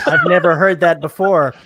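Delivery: dry sarcastic remark with a laugh. Acted. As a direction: roll your eyes as you say it. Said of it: "relatively sarcastically".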